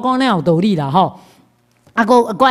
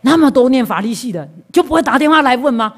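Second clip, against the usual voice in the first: higher, louder mock scolding from Liao; retold scolding; 5 semitones higher, 3 dB louder than usual. Friend Liao scolds him for not calling the law students, mock scolding. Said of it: "伊就甲我骂讲".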